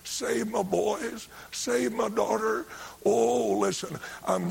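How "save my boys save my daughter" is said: slow, drawn-out plea, rising in pitch; pleading prayer. Retold or imitated. Mama prays on her knees for her children, slow pleading. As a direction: plead it slowly, each line lifted higher. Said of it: "she'd be praying".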